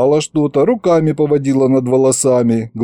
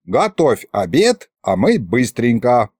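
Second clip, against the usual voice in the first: commanding. Acted. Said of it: "приказала левая голова".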